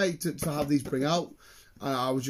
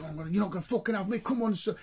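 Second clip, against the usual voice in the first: playing Goku; 5 semitones higher, faster than usual. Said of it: "as if I am Goku himself".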